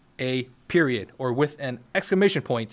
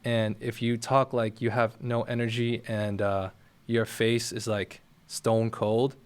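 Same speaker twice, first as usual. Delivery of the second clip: low-energy demo; 3 semitones lower, slower than usual. Shown as a demonstration. Creator demoing the boring voice viewers hate, slow and lifeless. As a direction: drag it out like you couldn't care less. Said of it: "You don't want to sound like this".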